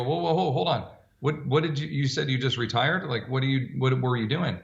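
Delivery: urgent whoa. Retold or imitated. Stopping client from leaving.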